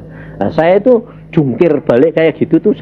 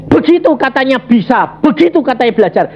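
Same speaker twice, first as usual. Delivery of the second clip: high, mocking shout; mocking lecturer; 10 semitones higher than usual. Lecturer mocking the failed student, high shout. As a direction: jeer like the scornful lecturer. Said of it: "Dia berkata gini".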